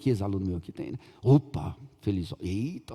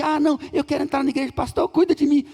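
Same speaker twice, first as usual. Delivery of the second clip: mock needy believer; 5 semitones higher than usual. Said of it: "Tem gente que".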